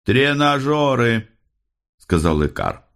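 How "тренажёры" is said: high, slow call with mouth obstructed; mumbling round a coin. A narrator's reading. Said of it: "Он говорил невнятно, мешала монета". (невнятно, высоким голосом, с монетой во рту)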